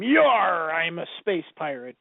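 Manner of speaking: lightly voiced pirate, drawn-out growl of "Yar"; a hint of hammy pirate swagger; space pirate. Showing how they made him a space pirate, mock pirate. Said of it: "they just made him".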